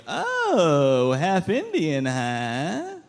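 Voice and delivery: teasingly drawn-out curiosity; mock flirty. Stranger learning he is half Indian, mock flirty. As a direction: play it coy, as a nosy question. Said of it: "What a fun, flirty way".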